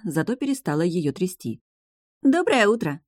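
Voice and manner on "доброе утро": bright sung good morning; cheerful singsong. A narrator's reading. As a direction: sing it out, full of joy. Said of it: "пропела жизнерадостно".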